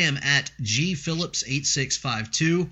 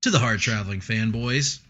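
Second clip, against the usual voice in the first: radio voice; 6 dB louder than usual. Real, not acted. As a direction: announce it like a DJ on air. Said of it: "That was a little bit of radio voice".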